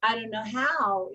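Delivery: the phrase said twice, rising first, then falling; a plain, even affirmation modeled for the client. Shown as a demonstration. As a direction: repeat it calmly as a mantra. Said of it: "Then say".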